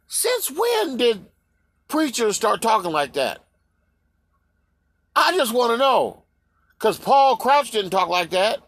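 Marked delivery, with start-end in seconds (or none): 0.1-3.4 incredulous. Real, not acted. His incredulous reaction to the preachers.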